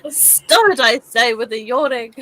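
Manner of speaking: really posh, mock command. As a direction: scold in a playful posh English voice. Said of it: "say that with a really posh voice".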